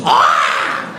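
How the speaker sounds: deep, loud demonic roar; demonic sorcerer. Acted. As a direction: boom it out as a dark god. Mock epic sorcerer climax.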